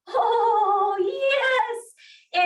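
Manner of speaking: high, delighted oh; excited cry. Real, not acted. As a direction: cheer them on with a high oh. Instructor cheering class on.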